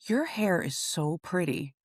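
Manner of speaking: retold compliment, calmly drawn out. Airport security officer to a flustered traveler, calm compliment. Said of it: "she was so calm".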